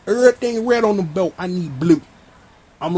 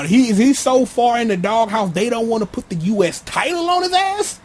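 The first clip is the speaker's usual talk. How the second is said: rising disbelief, pitched way up on the last words; incredulous question; 3 semitones higher than usual. Real, not acted. Fan questioning the writers' booking, rising incredulity. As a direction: voice climbing high by the end.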